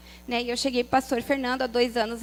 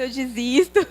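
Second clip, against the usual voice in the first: laughing; 5 dB louder than usual. Real, not acted. Retelling nervous near-quitting.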